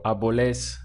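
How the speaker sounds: árboles with the stress on the last syllable; wrong stress demo. Shown as a demonstration. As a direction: push the end of árboles. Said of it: "where you're stressing the end".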